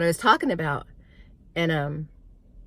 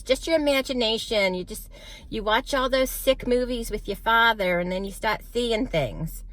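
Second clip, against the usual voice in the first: New York mom; 5 semitones higher than usual. Retold or imitated. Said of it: "She was from New York".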